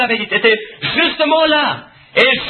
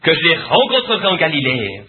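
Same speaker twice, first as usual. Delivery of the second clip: voice of the risen Lord; 3 semitones lower than usual. Acted.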